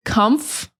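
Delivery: comf-ter-ble in three clipped syllables, no middle vowel; comf-ter-ble with the or swallowed. Shown as a demonstration. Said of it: "We say comf-ter-ble".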